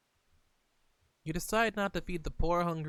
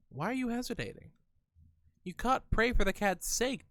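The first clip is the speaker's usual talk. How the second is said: pressing; 7 semitones higher than usual. Acted. Reading cat's pressure quickly.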